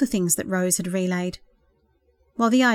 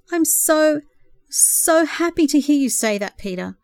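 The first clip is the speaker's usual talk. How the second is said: earnest smile; 7 semitones higher, 4 dB louder, slower than usual. A narrator's reading. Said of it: "she smiled earnestly".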